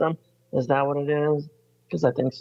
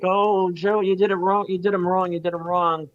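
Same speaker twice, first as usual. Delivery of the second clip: mocking fake sympathy; 5 semitones higher than usual. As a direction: lay the fake concern on thick.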